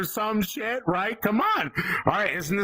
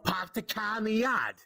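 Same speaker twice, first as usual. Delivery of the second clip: R-less Boston accent sample; 3 dB quieter than usual. Shown as a demonstration. Comic repeating the accent sample, Boston accent. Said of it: "Everybody knows the Boston accent".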